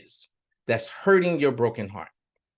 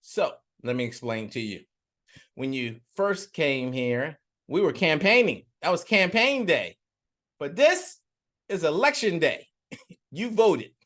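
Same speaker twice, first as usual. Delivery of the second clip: gloating devil. Acted. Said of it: "And the devil said".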